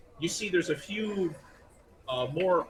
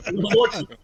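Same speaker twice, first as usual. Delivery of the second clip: laughing; 7 semitones higher, 11 dB louder, much faster than usual. Real, not acted. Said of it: "GM laughing at the joke".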